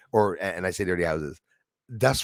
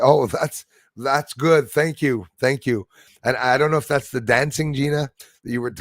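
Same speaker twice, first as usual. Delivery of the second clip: normal talking voice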